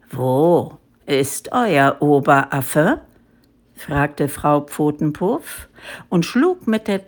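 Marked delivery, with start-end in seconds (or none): 0.1-3.0 low, slow big-cat voice; menacing tigress. A narrator's reading. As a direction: predator interrogating her prey, deep and deliberate. Angry tigress questions the monkeys.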